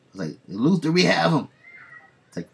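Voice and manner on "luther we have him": giddy and much higher, louder. Retold or imitated. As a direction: gleefully announce it, pitched way up. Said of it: "he's giddy".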